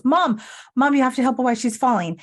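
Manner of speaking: put-on high, fast child calling for help; a kid urgently calling mom. Daughter calling mom to help grandma, high and hurried. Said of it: "Amanda goes".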